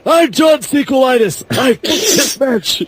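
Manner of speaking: mock executive voice. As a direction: lightly ham up a pompous boss. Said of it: "That's why I talk this way".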